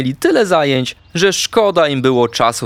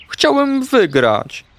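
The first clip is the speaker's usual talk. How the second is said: high, slow plaintive confession; tearful disappointment; 12 semitones higher, much slower than usual. A narrator's reading. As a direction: draw it out, pitched up, on the verge of tears. Tearful hamster admits disappointment. (żałosne, przeciągłe wyznanie)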